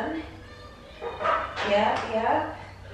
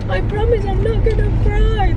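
put-on higher little-girl promise; imitating her daughter; 8 semitones higher, 4 dB louder than usual. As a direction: mimic a small girl holding back tears. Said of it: "Tapos sabi niya".

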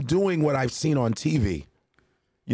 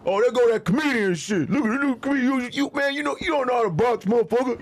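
high, louder teasing gym heckle; mocking boxers; 12 semitones higher, 3 dB louder than usual. Boxers mocking the comedian, high taunting voice. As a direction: razz the new comedian from the ring. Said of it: "They was like".

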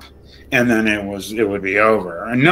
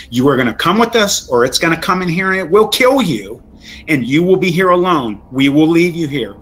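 raised pitch, pressing insistence; stern retold ultimatum; 4 semitones higher than usual. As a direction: lay down an ultimatum, rushed at first. Retold ultimatum to panicking friend.

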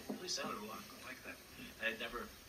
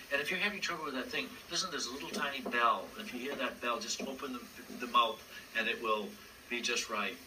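Big Bird voice; 5 dB louder than usual. Acted. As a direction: play the big sweet bird puppet.

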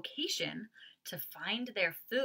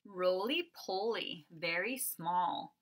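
slow, rhythmic read-aloud; picture book reading; slower than usual. Acted. Teacher reading the picture book refrain to kindergarteners.

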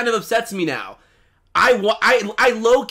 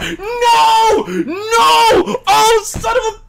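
real tearful wailing, higher and louder; crying; 9 semitones higher, 5 dB louder, slower than usual. Real, not acted. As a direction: sob and laugh at the same time. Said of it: "I'm not crying!".

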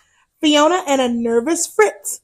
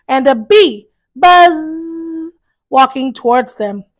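put-on reading to children. A narrator's reading. To children, reading a Halloween picture book, lively storyteller voice. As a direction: tell it brightly to little ones.

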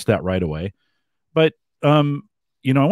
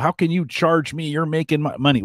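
higher-pitched mock indignation; indignant complaint; 7 semitones higher than usual. Mimicking people who object to the award show charging, indignant. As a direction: protest like an affronted customer.

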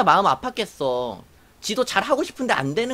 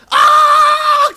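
imitated long, loud, high scream of pain; hammed-up shriek, far higher and louder; 13 dB louder than usual. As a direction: scream out like the plucked soldier. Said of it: "소리 지르길래".

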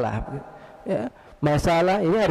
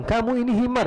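higher, assertive mock insult; accusing statement; 7 semitones higher than usual. Shown as a demonstration. Hypothetical man insulting the caliph, accusing statement. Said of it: "Kalau dia mengatakan".

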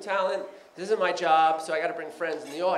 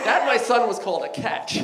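lofty English manner; 4 semitones higher, 4 dB louder than usual. Retold or imitated. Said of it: "That's why he talked like that".

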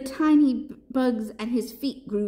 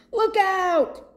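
high, loud warning yell; Papaya; 12 semitones higher, 5 dB louder than usual. A narrator's reading. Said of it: "yelled Papaya".

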